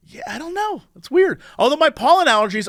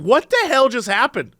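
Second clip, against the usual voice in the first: retold bewilderment; 5 semitones higher than usual. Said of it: "And I was like".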